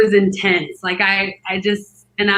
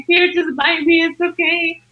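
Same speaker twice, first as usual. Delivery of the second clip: higher-pitched placating voice; reassuring husband; 7 semitones higher than usual. Retold or imitated. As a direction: lightly imitate a husband giving in to help. Husband offering himself to bite.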